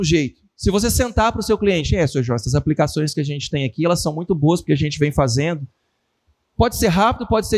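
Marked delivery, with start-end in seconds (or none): 2.0-5.7 monotone salesman. Retold or imitated. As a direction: drone through the pitch without life. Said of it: "Se for monótono, não vai funcionar". (vendedor monótono, mais grave e baixo)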